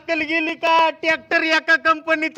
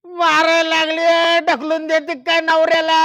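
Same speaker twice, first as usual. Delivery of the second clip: loud complaining; 3 semitones higher, 3 dB louder than usual. Acted. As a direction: bellow it as a wronged husband. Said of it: "ओ, ओरडू नका इथे".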